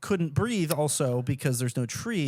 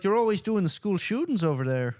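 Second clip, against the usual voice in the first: mock Canadian accent; 4 semitones higher than usual. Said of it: "it is kind of Irish or something".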